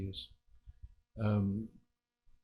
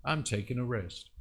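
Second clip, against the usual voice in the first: unbothered reply; 4 dB quieter than usual. Acted. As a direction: answer the panic with total ease. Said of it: "he says".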